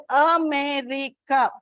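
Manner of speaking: AMERICA measured out in four even beats; teacher counting out the syllables of "America". Shown as a demonstration. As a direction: sound out "America" as A-ME-RI-CA. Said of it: "There are four syllables".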